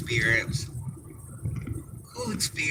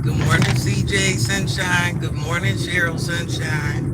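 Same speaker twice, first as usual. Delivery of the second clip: bright greeting; 4 semitones higher than usual. Real, not acted. Vlogger greeting viewers with a cheery hello. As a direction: greet them like sunshine.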